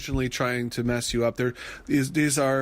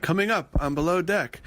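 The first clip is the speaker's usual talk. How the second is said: mock announcer; 4 semitones higher than usual. Mimicking show announcer.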